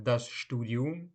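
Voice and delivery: "das Studium" spoken slowly, each syllable clear, rising at the end; slow dictation-style "das Studium"; slow careful model. Shown as a demonstration. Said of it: "teacher repeats word slowly then normally".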